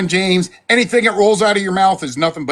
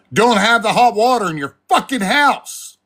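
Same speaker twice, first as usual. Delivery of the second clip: ranting; 3 semitones higher than usual. Real, not acted. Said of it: "Sorry, I'm ranting".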